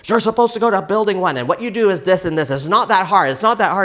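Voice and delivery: loud, fast condescending lecture; scolding officer. Retold or imitated. Police officer scolding the driver, loud and fast. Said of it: "police person that's like".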